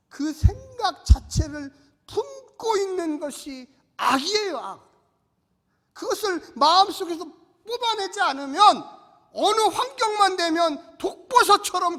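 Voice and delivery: loud, slow pulpit declaration; rousing sermon cry. Acted. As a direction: lift the hall with the promise. Preaching at full force. (우렁찬 설교 외침)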